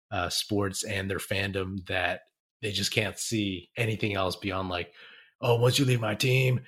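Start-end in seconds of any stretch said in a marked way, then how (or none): 5.4-6.6 put-on voice. Voicing an upset fan who hates the player for leaving, put-on voice. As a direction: do a silly bitter-fan voice. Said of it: "I don't know whose, whose voice I just did".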